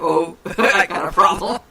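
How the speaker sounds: slow line broken by laughter; laughing. Retold or imitated. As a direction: laugh through the quote. Mock quote of Connie.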